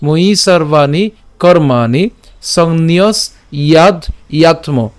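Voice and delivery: slow "ময়ি সর্বাণি কর্মাণি", then separated "সংন্যস ইয়াদ ইয়াত্ম"; pronunciation demo. Shown as a demonstration. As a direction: recite from "ময়ি" slowly, breaking before "ইয়াদ". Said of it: "আবার বলছি".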